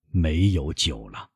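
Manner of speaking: slow, weary old man, lightly voiced; resigned old father. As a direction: confess it slowly to your son. Weak father admits empty cupboard.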